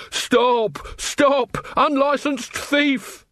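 high-pitched cry of alarm; calling out. A narrator's reading. Robbed tavern man chases a thief, calling out. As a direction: call after a thief in a high voice.

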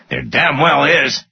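high, insistent retort; angry contradiction. A narrator's reading. Finance guy contradicting his boss, angry retort.

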